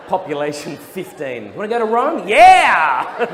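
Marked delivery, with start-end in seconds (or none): 1.5-2.3 mock-bright higher voice, a bit louder; eager question. Mum asking if he wants Rome. 2.3-3.2 loud high excited yelp with a laugh; excited yes. Retold or imitated. His eager answer to Rome.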